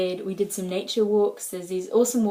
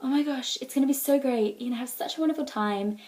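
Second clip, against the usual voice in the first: light, breezy enthusiasm in a raised pitch; gushing well-wishers; 3 semitones higher, faster than usual. Retold or imitated. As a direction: imitate friends being thrilled for you. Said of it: "everyone's like".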